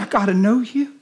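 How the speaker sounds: retold crying prayer, pitch climbing; desperate tearful plea. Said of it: "I'm desperate. I'm crying".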